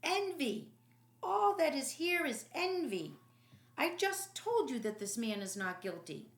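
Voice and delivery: loud, high furious outburst; angry shout. Acted. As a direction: hurl the accusation at them. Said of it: "Pilate shouted angrily".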